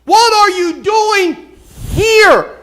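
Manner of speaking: God in the cave booming the question slowly. Acted. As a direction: thunder it out as God confronting Elijah. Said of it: "God doesn't want him in the cave".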